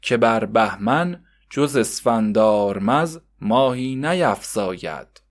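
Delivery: put-on slow, measured recitation of old verse; slow recited verse; reading verse aloud. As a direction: read it like a schoolboy reciting his lesson. Javad reading calendar verse aloud.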